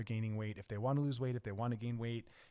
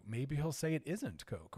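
normal talking voice

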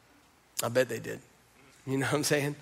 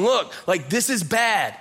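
higher and louder, fed up; exasperated Martha; 5 semitones higher, 6 dB louder, slower than usual. Retold or imitated. Martha telling Jesus the tomb is bad, exasperated and louder. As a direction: insist it's hopeless, pushing back. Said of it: "she's going, she's going".

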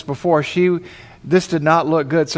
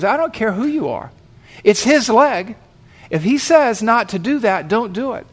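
higher, insistent, mildly angry objection; a little angry; 5 semitones higher than usual. Acted. Bystander overruling the paramedic, indignant and insistent. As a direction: push back firmly in a raised pitch. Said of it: "he seemed a little bit angry".

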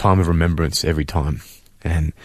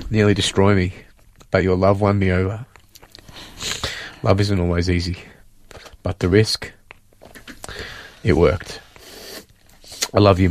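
heartfelt letter read aloud, a touch raised; reading his letter aloud. Real, not acted. Son reads his mum the letter he wrote, gently moved. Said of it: "I wanna read this that I wrote to you".

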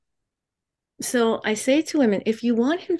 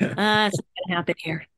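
stern warning face; 4 semitones lower, 4 dB quieter, faster than usual. Shown as a demonstration. Mock stern confrontation demo.

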